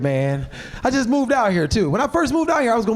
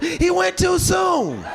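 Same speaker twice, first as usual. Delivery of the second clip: slow, high wail of grief from a mourner; 6 semitones higher, slower than usual. Retold or imitated. Mourner at the funeral calls out, slow high wail. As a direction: draw it out like a wailing relative. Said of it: "Somebody yelled out".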